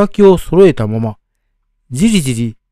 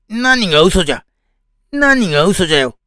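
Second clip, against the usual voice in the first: put-on cornered old man; 5 semitones higher than usual.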